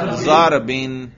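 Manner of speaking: "ضربن" ending clearly in -in; jarr ending. Shown as a demonstration. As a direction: say "ضربن" with a final "in" sound. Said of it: "جر پہ کریں". ("ضربن" جر کے ساتھ، آخر میں "اِن")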